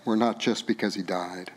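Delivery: quiet, choked-up telling of loss; tearful. Real, not acted. Preacher grieving his dad before the church, softly tearful. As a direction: hold back tears as you speak. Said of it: "I'm just really emotional about this".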